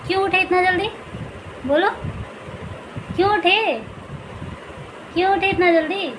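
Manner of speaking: playful scolding coo at a just-woken infant. Real, not acted. Mother cooing at her baby. (बच्चे से लाड़ भरी तुतलाती आवाज़ में)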